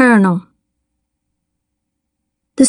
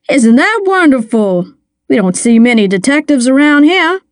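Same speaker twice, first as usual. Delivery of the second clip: slightly raised, welcoming small-town mayor; lightly voiced sociable mayor; 4 semitones higher than usual. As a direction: play a mayor lightly, making pleasant small talk. Mayor of the story speaking.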